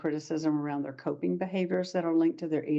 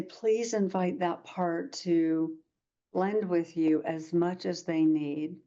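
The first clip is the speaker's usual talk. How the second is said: slow gentle guidance. Retold or imitated. Therapist guiding crying client.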